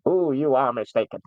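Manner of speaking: a light hint of a sore-throated Cyberman; just sketch the old robotic Cyberman, not full out. Shown as a demonstration. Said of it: "It's actually quite good".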